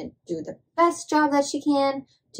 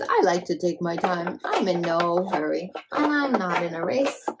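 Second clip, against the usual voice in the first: lower, unhurried frog; a lightly voiced lazy frog, lower; 5 semitones lower than usual. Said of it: "Frog says".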